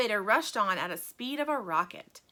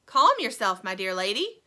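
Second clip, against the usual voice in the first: soothing; 8 dB louder than usual. A narrator's reading. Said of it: "patted her comfortingly".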